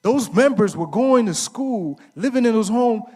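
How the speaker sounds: loud, slow, high-pitched call; preaching call-out. Real, not acted. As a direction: build it like a preacher. Preaching-style call and response.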